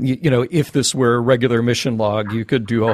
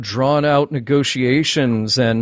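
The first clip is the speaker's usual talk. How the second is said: complaining fan; 3 semitones higher than usual. Retold or imitated. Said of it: "Star Trek fans complaining that".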